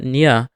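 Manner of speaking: "nya" with the tongue against the palate; palatalized sound. Shown as a demonstration. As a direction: press the tongue to the mouth's roof for "nya". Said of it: "is when the tongue touches the roof".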